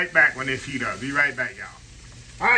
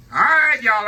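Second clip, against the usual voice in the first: excited greeting; 7 semitones higher, 8 dB louder, slower than usual. Real, not acted. Cheery return greeting to viewers.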